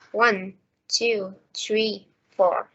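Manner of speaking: "one, two, three, four" as separate, evenly timed beats; even stressed beats. Shown as a demonstration. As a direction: count each number on its own beat with pauses. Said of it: "time between stressed words is always the same".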